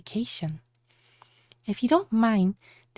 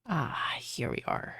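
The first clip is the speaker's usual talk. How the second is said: whispering; 9 semitones lower, 7 dB quieter, slower than usual. Acted. Arriving at resort.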